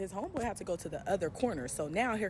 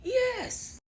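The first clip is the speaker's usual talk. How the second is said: squeaky yes; 3 dB louder than usual. Real, not acted. Answer to are you scared.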